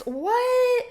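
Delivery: surprised. Real, not acted.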